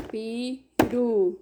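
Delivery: pirulito stretched slowly, syllable by syllable. Shown as a demonstration. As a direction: spell out pirulito slowly in beats. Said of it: "foi dividido em quantas partes?".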